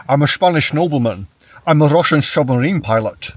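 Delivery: put-on Connery accent. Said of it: "he never tries to do another accent".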